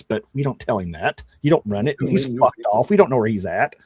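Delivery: normal talking voice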